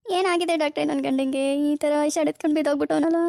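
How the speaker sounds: loud theatrical mock lament; put-on crying. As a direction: switch on fake tears on cue. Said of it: "ಹೌದಲ್ವಾ, ನಾನು ಅಳ್ಬೇಕು".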